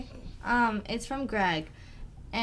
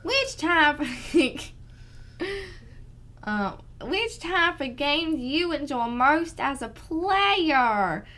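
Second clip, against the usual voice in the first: slow, louder Southern drawl, laughing in; southern accent; 4 semitones higher, 4 dB louder, much slower than usual. Shown as a demonstration. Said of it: "Try this one in a southern accent".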